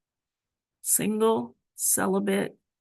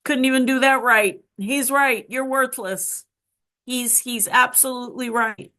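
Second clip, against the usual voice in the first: higher, louder self-scolding; bitter self-reproach; 5 semitones higher, 4 dB louder than usual. Retold or imitated. Waking after the attempt, she scolds herself bitterly, high and loud. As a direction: spit the words out against yourself. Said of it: "my first thought, of course, is".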